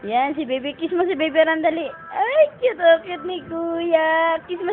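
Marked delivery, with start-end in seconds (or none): 2.2-4.4 high, delighted cooing. Real, not acted. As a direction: gush over the sweet moment. Delighted at kiss.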